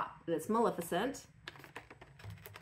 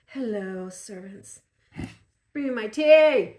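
haughty queen ordering servants; commanding, loud royal demand; imperious plummy grande dame; 10 dB louder, slower than usual. Pretend. Playing Evil Queen in mask.

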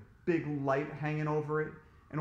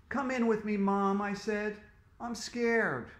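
scared pleading; 6 semitones higher than usual. A narrator's reading. Scared boy pleads with mom.

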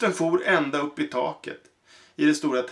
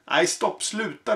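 crying out; 6 semitones higher than usual. Acted. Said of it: "ropar den lille kanonkungen".

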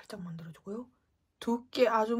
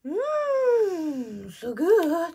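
savoring; 8 semitones higher, 7 dB louder, much slower than usual. Real, not acted. Savoring reaction.

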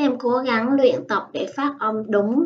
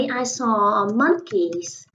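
very slow, clear example answer; slow model answer; much slower than usual. Shown as a demonstration. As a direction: drawl it out for learners. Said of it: "mình đã thấy".

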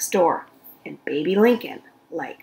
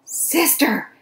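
shouting for sister; 8 semitones higher than usual. Acted. Baby shouting for her sister in fright. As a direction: yell for your sister in fear. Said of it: "shouted Baby".

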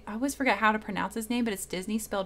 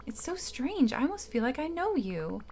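put-on Merlin old man voice; 3 semitones higher than usual. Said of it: "my old man voice".

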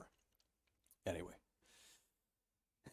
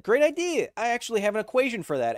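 excited; 9 semitones higher, 6 dB louder than usual. Retold or imitated. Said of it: "I said".

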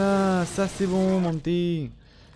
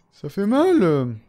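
laughing; 5 semitones higher, 5 dB louder, much slower than usual. Real, not acted. Gamer laughs after a hit.

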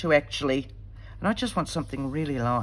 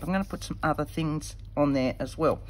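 mic bump. Real, not acted. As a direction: knock on the microphone. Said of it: "Sorry, I just hit the microphone".

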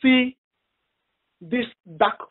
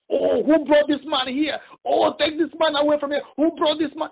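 Satan's smothering voice; 3 semitones higher than usual. Retold or imitated. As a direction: drag it out like a demon strangling its prey. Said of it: "like you, you want to suffocate somebody".

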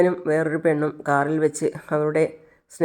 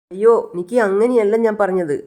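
louder, hurried protest; quickly calm her, a bit raised; defensive protest; 4 semitones higher, 4 dB louder than usual. Acted. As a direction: Devan protesting to his upset girlfriend, louder. Devan placating upset girlfriend.

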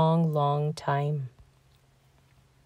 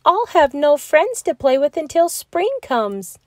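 sadly; 8 semitones higher than usual. A narrator's reading. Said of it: "he said sadly".

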